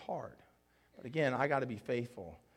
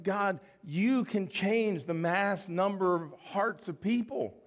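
earnest prayer; 5 semitones higher, 3 dB louder than usual. Retold or imitated. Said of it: "I'm like".

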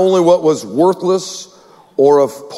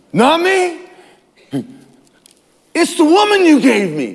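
higher, whiny mock excuse with a laugh; lightly voiced blame-shifter; 9 semitones higher than usual. Adam blaming the woman, lightly mocked in a higher voice. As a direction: pass the blame, half-joking.

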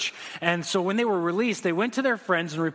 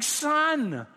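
father answering; 8 semitones higher, slower than usual. Retold or imitated. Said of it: "And he's like".

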